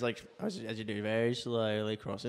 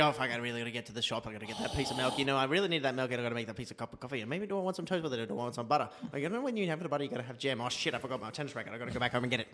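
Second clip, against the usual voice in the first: fast-talking sloth; 5 dB quieter, faster than usual. Pretend. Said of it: "a sloth talked fast".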